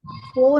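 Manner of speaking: पो said with no breath after the P; unaspirated po. Shown as a demonstration. Teacher repeats the sound to avoid, unaspirated पो. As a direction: keep the P of पो dry, without aspiration. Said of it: "पो नहीं है".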